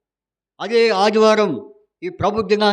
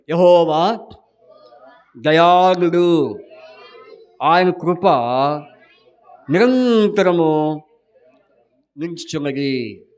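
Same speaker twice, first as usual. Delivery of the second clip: loud, slow group recitation; said louder; 3 dB louder, slower than usual. Real, not acted. The teacher asks the group to say it louder, loud slow chant. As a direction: call the verse out together, stretching each word. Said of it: "కొంచెం గట్టిగా చెప్పండి".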